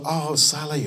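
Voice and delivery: mock-gushing hello; gushing greeting. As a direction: act out a fussing welcome. Fussing crowd greets revived girl.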